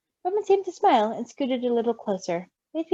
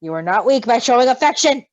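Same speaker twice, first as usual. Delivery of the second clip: louder, insistent cry; emphatic protest; 7 dB louder than usual. Real, not acted. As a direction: insist he is not weak. Narrator protesting to the character.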